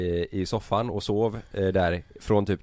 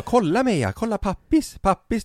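excited cooing; 12 semitones higher, slower than usual. Retold or imitated. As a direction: imitate a high-pitched, excited coo. Sanna visar Meja pappa. (härmar ivrigt, ljust gullande)

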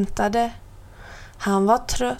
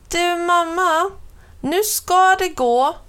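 calling out; 8 semitones higher than usual. A narrator's reading. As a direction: shout it out eagerly to mum. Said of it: "ropade han".

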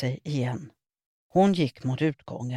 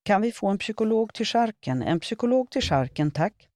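urgent PA call; 6 semitones higher than usual. A narrator's reading. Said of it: "greppade åter mikrofonen".

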